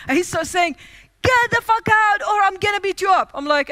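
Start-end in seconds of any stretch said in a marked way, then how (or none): 1.2-3.3 furious shout. Retold or imitated. Hotel man threatening her.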